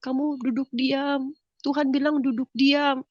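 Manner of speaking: soft urging. Retold or imitated. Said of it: "Saya cuma bilang".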